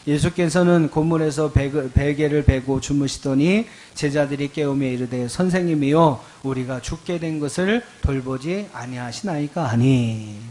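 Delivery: loud, measured verse reading; scripture reading aloud. Real, not acted. Pastor leading congregation in Mark's storm verse, loud scripture reading. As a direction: read the verse out firmly.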